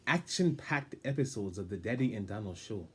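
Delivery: stiff, stately show-host voice; formal announcer voice. Pretend. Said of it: "I will keep this voice just for this one part".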